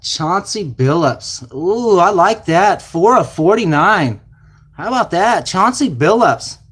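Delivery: drawn-out thrilled card reveal; excited pull. Real, not acted. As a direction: savour the big hit. Excited over autograph pull.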